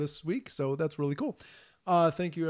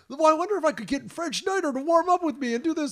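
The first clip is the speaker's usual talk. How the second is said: imitated friend; 11 semitones higher than usual. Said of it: "they were like".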